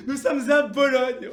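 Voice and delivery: loud, drawn-out amused outburst; big, hearty amused exclamation; laughing realisation. Acted. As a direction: laugh off your own blunder, loudly. Laughs off the mistake.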